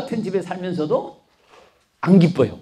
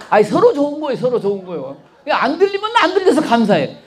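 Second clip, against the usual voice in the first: laughing; 4 semitones higher than usual. Real, not acted. Laughing emphatic punchline.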